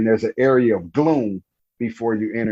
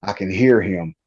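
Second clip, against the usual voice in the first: choked up; 3 semitones lower than usual. Real, not acted. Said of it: "Take your time".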